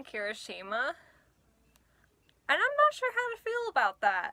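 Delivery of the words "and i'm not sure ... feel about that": laughing. Real, not acted. Jokes about looking like Kirishima.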